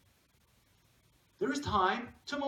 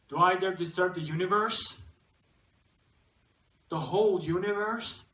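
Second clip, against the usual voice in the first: louder, questioning recitation with a rising end; dramatic poem reading; 4 dB louder than usual. Acted. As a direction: declaim it as a daring question. Reads poem's daring question aloud.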